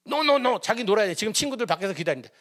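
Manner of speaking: put-on high, pushy child voice refusing; whiny child. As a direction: play the stubborn nine-year-old begging to go out. Child refuses to sit and study.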